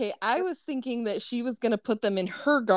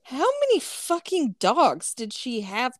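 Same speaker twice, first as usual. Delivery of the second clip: can barely get the question out for laughing; laughing disbelief; 5 semitones higher than usual. Real, not acted.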